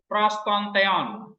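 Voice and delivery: prostonteon read very slowly as one phrase; slow demonstration. Shown as a demonstration. Teacher reading Greek slowly to students, one phrase. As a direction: spell prostonteon out slowly for the class. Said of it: "ini satu phrase namanya".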